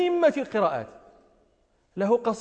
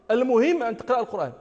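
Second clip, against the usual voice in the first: dismissive quote; faster than usual. Retold or imitated. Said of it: "قول القائل".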